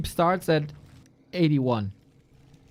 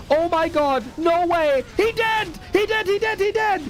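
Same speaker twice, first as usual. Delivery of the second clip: excited cheering; 10 semitones higher, 5 dB louder than usual. Real, not acted. Cheering a clutch save.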